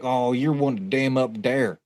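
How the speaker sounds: a light mock Appalachian drawl, slowed down; hillbilly drawl. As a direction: drag the words out like the backwoods stranger, only lightly. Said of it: "that was legit how this man sounded".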